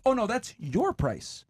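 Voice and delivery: slow, high, smugly calm reply; deadpan salesperson. Acted. Salesperson to the customer, slow smug deadpan. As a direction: tell them flatly with a calm stare. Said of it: "looks you dead in the eye and says".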